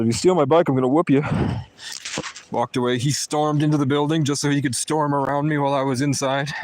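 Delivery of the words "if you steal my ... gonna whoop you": loud threat. Retold or imitated. Telling the guy off, in a loud threat. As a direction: warn him loudly. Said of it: "I said".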